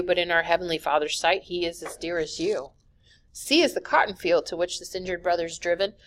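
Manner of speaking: steady rhythmic verse reading; poem reading. Acted. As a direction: read it like a rhyming poem. Reads an alphabet poem aloud.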